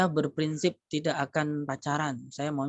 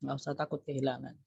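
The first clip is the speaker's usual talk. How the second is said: "nggak usah takut kehilangan" said again much softer, as an echo; softer repeat; 5 dB quieter than usual. Shown as a demonstration. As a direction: repeat it softly and let it sink in. Repeating advice, more softly. (ulangi dengan suara lebih pelan)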